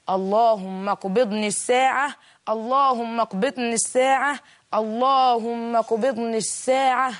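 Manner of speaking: slow, drawn-out prayer; retold prayer, long held vowels; retold supplication. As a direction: stretch each word as a repeated plea to God. Man's plea to God in prostration.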